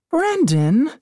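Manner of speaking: sharp high call of his name; a mother's mild yell from the front seat. Acted. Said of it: "Missus Walker yelled".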